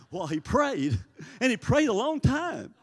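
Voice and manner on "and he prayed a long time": laughing through the punchline, pitched much higher and louder. Real, not acted. Preacher laughing to church about Clayton's long prayers. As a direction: chuckle out the ending as you say it.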